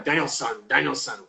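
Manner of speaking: "Daniel-san" ending like "sun", said softly; mispronounced as son. Retold or imitated. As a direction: quote the common "Daniel-san" with an UH in "san". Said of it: "which people say son all the time".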